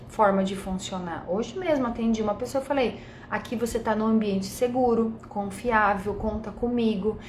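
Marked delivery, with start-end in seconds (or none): 3.3-7.2 reassuring. Retold or imitated. Reassuring a client in a session.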